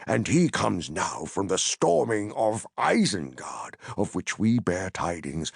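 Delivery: lightly voiced, firm wizard; Gandalf vouching. Gandalf vouching for Pippin to Ingold, firm.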